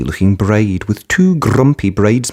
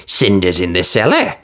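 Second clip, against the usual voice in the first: sneering. Acted. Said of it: "sneered her stepsisters".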